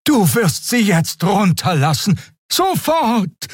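high-pitched urgent order; firm command. A narrator's reading. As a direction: demand an immediate release. Xea orders Keru to release her.

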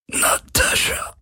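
langsam, tonlos gehaucht im Sterben; letztes Wort. Acted. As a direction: mit dem letzten Atem ausgehaucht. (Parker stirbt und haucht tonlos einen Namen)

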